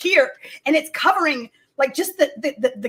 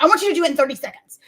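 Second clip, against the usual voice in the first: fast insistent quote; faster than usual. Retold or imitated. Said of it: "He's like".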